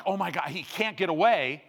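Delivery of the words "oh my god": mildly panicked, pitch lifted; retold panic. Preacher voicing the son facing a speedboat, mild panic. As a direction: imitate someone freaking out, lightly. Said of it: "Freaking out. He's like".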